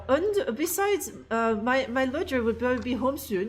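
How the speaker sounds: put-on a light German accent on the English line. Streamer reads the subtitle aloud in a light mock German accent. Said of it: "you know, that German accent".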